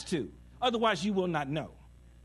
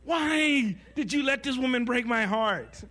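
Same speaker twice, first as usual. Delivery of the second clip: high, loud, slow mock lament; dramatic heartbroken plea; 8 semitones higher, 5 dB louder, slower than usual. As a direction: wail it at God like bad melodrama. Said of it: "'cause you gotta make it dramatic".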